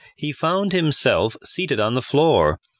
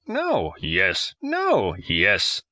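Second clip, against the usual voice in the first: squeaky No against gruff Yes; bickering old men; 2 semitones lower, much slower than usual. A narrator's reading. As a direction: trade the no and yes like a quarrel.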